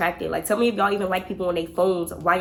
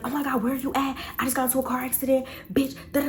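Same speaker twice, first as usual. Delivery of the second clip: higher, hurried fake-emergency voice; mock frantic yelling; 6 semitones higher, faster than usual. Friend faking a car accident by phone, mock panic. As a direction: imitate a panicked caller without the volume. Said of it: "And she's yelling".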